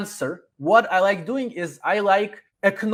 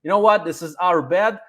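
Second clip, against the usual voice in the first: friendly rep reply. Shown as a demonstration. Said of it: "you say, like".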